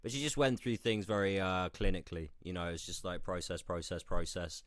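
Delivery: groggy, hungover speech. Real, not acted. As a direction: search for words through a hangover. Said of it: "so hungover today, Matt. I apologise".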